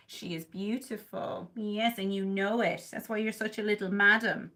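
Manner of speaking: dote on the cat; tender. Real, not acted.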